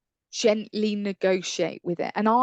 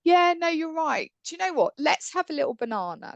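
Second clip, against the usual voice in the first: soothing; 8 semitones higher, faster than usual. Retold or imitated. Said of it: "and I go".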